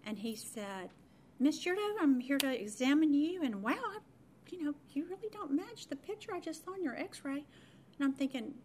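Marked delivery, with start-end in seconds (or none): 1.4-7.4 put-on young doctor. Voices young doctor greeting, amazed.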